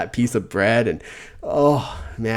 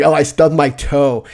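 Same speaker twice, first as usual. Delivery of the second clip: whiny mock complaint; 5 semitones higher, 9 dB louder, slower than usual. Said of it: "it's like".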